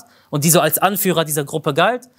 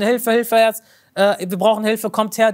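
calling for help; 4 semitones higher than usual. Retold or imitated. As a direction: retell the call for help with urgency. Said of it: "er hat laut um Hilfe gerufen".

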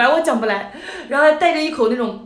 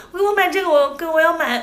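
put-on childish begging; 5 semitones higher, 4 dB louder than usual. Child asks to buy doll.

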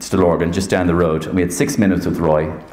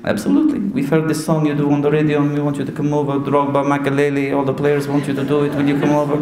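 higher, even-toned Portuguese manager; put-on voice, insistent invitation; Jose Mourinho; 5 semitones higher, faster than usual. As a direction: imitate an accented manager, persuading. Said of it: "This is me, Jose Mourinho".

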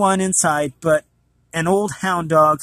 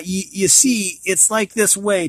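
a stronger, more careful Irish brogue on the second go; old Irish groom telling his horse, in a firmer brogue; Irish accent retake; 3 semitones higher than usual. Acted. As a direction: redo the line leaning harder into the Irish lilt. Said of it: "Trying to make sure I'm getting this accent right".

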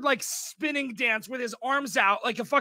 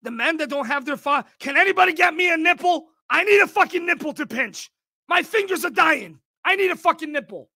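fast, loud, higher jittery mock of the dad; 5 semitones higher, 4 dB louder than usual. Streamer mocking the Adderall-fuelled dad, fast and loud. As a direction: ham up a twitchy man begging for a nipple. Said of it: "He's like".

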